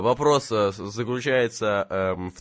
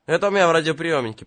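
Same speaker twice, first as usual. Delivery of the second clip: exasperated shout; 6 semitones higher, 7 dB louder, faster than usual. Acted. Corrects the machine-gun mix-up.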